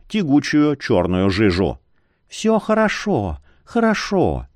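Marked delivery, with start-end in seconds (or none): 2.3-4.5 ласково. A narrator's reading. Утешает больного.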